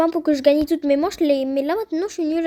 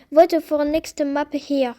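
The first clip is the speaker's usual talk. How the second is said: slow English with a heavy French accent; French-accented English, slowly; bad English accent; slower than usual. Real, not acted. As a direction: read English aloud in a clumsy French accent. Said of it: "Désolé pour mon accent anglais catastrophique".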